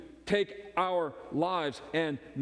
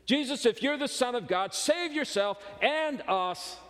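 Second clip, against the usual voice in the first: mocking thief. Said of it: "started to mock Jesus".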